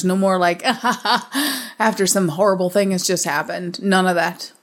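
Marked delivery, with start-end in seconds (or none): 0.7-1.7 mock action-hero laugh. Mocking glib disaster-movie heroes, fake laugh. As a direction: fake chuckle after a one-liner. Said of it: "I want no more one-liners".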